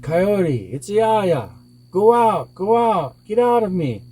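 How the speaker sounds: high, drawn-out cry to get out; pleading monster. A narrator's reading. Hurting monster begs Coyote out.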